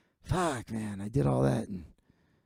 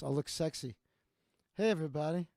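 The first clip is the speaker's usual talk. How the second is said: soft, low come-hither murmur; hushed mock-sultry hello; sexy low voice; 10 dB quieter, faster than usual. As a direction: drop the voice low and soft to sound seductive. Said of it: "I'll just talk like this".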